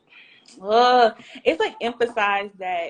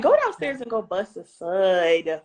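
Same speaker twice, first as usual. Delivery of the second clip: laughing. Retold or imitated. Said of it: "I'm like".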